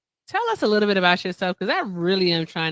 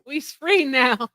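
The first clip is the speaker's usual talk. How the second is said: mock jubilation; 4 semitones higher, much slower than usual. Repeats mock celebration of release.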